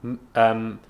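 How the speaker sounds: stuttering on the word; catching on a stammer. Real, not acted. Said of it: "sorry guys, I have a stutter".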